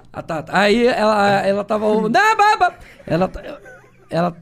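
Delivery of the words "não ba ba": tic outburst. Real, not acted. Tic outburst mid-story.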